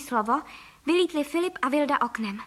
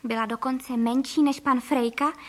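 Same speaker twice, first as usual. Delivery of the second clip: plain reading voice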